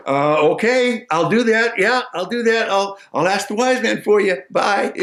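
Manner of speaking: a hint of a flustered simple fellow; simple man. Simple man promising the maiden, lightly voiced.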